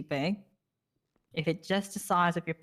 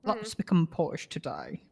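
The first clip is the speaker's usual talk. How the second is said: mock posh British. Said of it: "we do this in our British accents".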